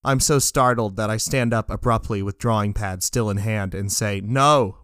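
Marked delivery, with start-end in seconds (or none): 4.2-4.8 loud no. Acted. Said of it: "way too loudly".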